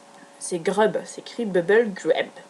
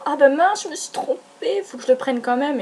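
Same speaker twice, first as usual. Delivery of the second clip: retold dismay at mistake; 4 semitones higher than usual. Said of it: "Donc du coup j'ai fait".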